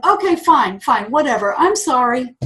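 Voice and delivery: lightly mocked grudging sorry; grudging apology. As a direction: apologize like a sulky man who doesn't mean it. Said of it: "he's going".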